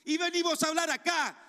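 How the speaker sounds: rising fury, spitting out carajo. Real, not acted.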